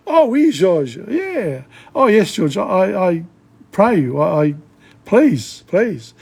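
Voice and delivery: high, eager begging; pleading niece. Acted. Niece pleading with George to visit Thomas, high and eager. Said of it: "niece pleading with George".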